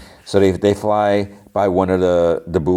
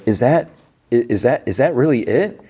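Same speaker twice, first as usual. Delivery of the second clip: higher, halting questions; awed disbelief; 6 semitones higher than usual. Retold or imitated. They all stare at the planet, disbelieving. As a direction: imitate someone hardly believing their eyes.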